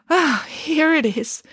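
put-on high, syrupy old lady voice; a theatrical, patronising dame; gushing grand dame. Dame Bronwyn finds medicine.

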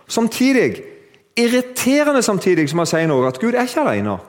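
very high-pitched, excited turn; preacher springing a paradox; emphatic preaching. Real, not acted. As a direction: swing up high to announce the twist. Preaches at full force.

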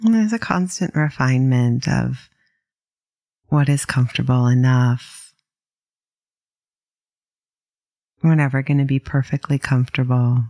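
calm, unhurried meditation guide with long pauses; gently paced mindfulness instruction; guided meditation. Acted. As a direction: ease listeners into settling, leaving space between phrases.

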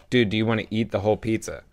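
retold casual question, evenly put; friend's casual question. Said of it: "and he's like".

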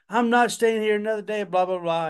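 put-on high, fast complaining kid; whiny protest. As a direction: rattle off a pouty protest. Daughter playing along, protesting.

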